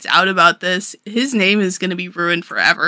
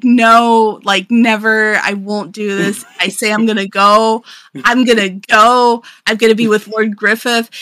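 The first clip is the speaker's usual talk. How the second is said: raised-voice imitation of a tantrum; loud, insistent mock protest; mock screaming tantrum; 3 semitones higher, 5 dB louder than usual. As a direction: throw a half-hearted princess tantrum. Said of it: "she's screaming".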